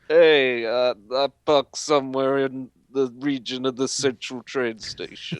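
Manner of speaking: lightly voiced Rocky; Rocky impression. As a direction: read it as a rough attempt at Rocky. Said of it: "The, the closest I do is my Rocky impression".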